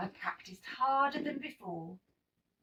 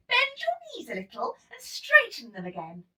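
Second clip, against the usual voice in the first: higher, louder teacher voice; teacher's instruction; 11 semitones higher, 6 dB louder than usual. A narrator's reading. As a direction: guide the class like a teacher.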